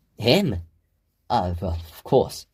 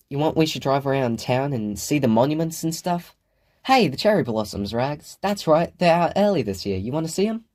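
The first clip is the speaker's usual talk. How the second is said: a higher, lightly voiced mother coaxing her girl; 6 semitones higher than usual. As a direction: coax gently like a fond mom. Chris voiced higher, coaxing daughter.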